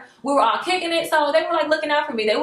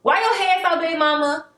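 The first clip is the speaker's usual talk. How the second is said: put-on child voice; 5 semitones higher than usual. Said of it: "they be like".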